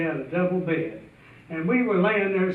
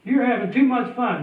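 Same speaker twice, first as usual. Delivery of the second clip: pleading yell; 4 semitones higher than usual. Retold or imitated. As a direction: holler at him to let you be the piper. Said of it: "I'm yelling at him".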